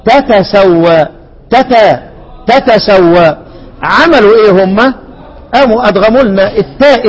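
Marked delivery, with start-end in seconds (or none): 0.0-1.1 تتسوى said very slowly with both ta sounded, tatasawwa; slow root form. Shown as a demonstration. Teacher showing students the original two-ta form, slowly. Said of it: "اتنين تاء". 2.5-3.4 تتسوى with both ta heard, tatasawwa; root form. Shown as a demonstration. Teacher repeating the two-ta form for students. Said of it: "اتنين تاء".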